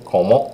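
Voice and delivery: Comment with nasal O sound, no final T; nasal Comment, ending silent; French nasal comment. Shown as a demonstration. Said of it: "it sounds like an O sound to your ear".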